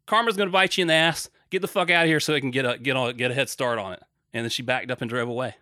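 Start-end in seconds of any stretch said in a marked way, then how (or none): 0.1-4.0 retold yelling. Yelling at the Uber driver to leave, raised voice. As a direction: bark it at her, karma's coming.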